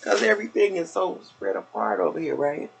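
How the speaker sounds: slightly winded, breathing hard; out of breath while talking. Real, not acted. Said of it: "a little bit out of breath".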